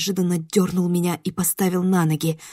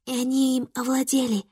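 eerie creature voice; 5 semitones higher, 5 dB quieter than usual. Acted. Эпизод жуткого шёпота духа.

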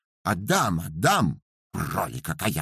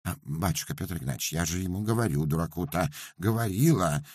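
rapid guilty pleading; 5 semitones higher than usual. Acted. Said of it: "заговорила быстро-быстро, но уже с повинной интонацией".

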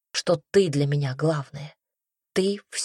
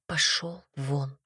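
low, slow, much softer order to leave; hushed get out; 3 semitones lower, 7 dB quieter, slower than usual. Acted. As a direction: grit it out quietly. She throws him out.

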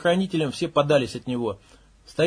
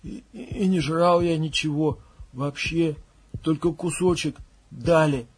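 mumbling; slower than usual. Acted. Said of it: "бормоча".

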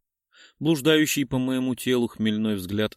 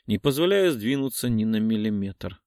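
usual speaking voice

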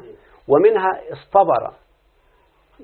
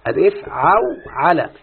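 careful demo; slower than usual. Shown as a demonstration. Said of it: "شوف انتبه يا شيخنا".

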